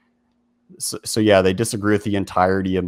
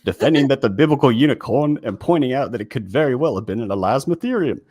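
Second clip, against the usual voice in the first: higher-pitched put-on Australian accent; hammed-up Aussie accent, pitched up; 6 semitones higher, 4 dB louder than usual. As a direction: read it out in a mock Australian accent. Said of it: "I should read this in, like, an Australian accent".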